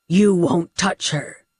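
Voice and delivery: snarled. Acted. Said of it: "Curran snarled".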